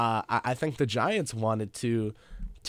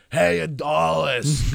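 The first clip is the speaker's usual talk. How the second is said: drawn-out, louder stadium heckle; mock heckle yell; 5 semitones higher, 6 dB louder, much slower than usual. Imitating his friend heckling a player at a Mets game, slow mock yell. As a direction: stretch it out like heckling from the bleachers. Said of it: "going on next to me all game".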